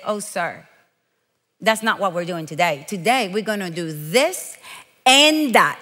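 polite correction. Retold or imitated. Customer correcting the shoe salesman, low and composed. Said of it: "I looked at him and I said".

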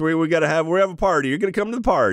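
lightly voiced celebrity impression; a rapper. Ride character welcoming guests to the party, light impression. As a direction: play a laid-back party host, dropping from the excited pitch. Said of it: "That's a really good rapper".

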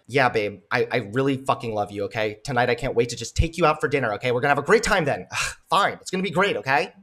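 low, impatient partner voice; loving words, harsh tone. Acted. Partner promising a dinner date, mock exasperated. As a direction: say sweet words like a fed-up partner. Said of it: "Doesn't it matter how I'm saying it?".

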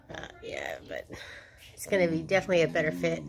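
lip pulled down; talking with fingertip in mouth; finger on teeth. Real, not acted. Seen 2: Fingertip pulls lower lip, touches front teeth while speaking from 3.3s.

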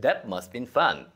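"must been" run together, no audible "have"; V almost dropped. Shown as a demonstration. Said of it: "이렇게 발음해서". ("must been"처럼 V 없이 이어서 발음)

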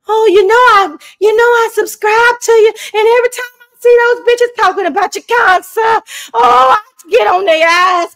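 loud, high Southern gushing, easing to tender. Pretend. Mock fan swearing loyalty to her kind sir, overwrought Southern voice. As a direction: declare devotion in a hammed-up Southern accent. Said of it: "get out my real Southern voice".

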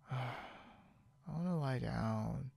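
slow, drawn-out weary sigh; tired. Acted. Wanting to lie down after counting sheep, mildly tired. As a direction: sigh it out, a touch sleepy. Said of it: "I'm kind of tired".

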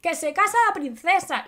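high, worried mother rushing in; a hint of a frantic mother; upset mother. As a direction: play the panicked old mum.

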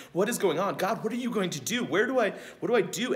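a prisoner begging God for answers, getting frantic; panicked prayer. Retold or imitated. Paul in prison crying out to God, panicking.

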